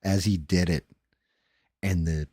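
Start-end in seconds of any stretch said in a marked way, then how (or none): 0.0-0.9 mock yell. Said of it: "he yelled".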